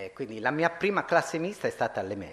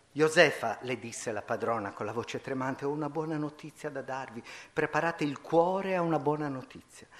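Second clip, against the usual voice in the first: expressive reading of a classic tale; story reading; 2 semitones higher than usual. A narrator's reading. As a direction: read the novel's ending to the audience. Reads De Amicis story aloud. (lettura espressiva di un racconto)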